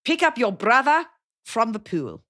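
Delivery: slow South African parent voice; imitating a South African parent ordering a kid around; South African accent. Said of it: "South African accent imitating my friend's parents".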